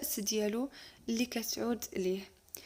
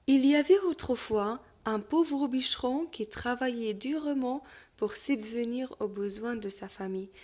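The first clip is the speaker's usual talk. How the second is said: lecture de conte; much slower than usual. Acted. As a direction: lecture lente et posée d'un conte. Teacher reads French tale aloud. (maître qui lit un conte lentement à sa classe)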